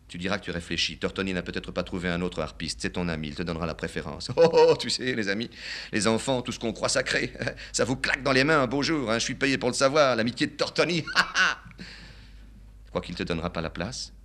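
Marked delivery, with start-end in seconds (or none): 4.4-11.1 put-on high, laughing old man, bitter; father laughing bitterly about friendship.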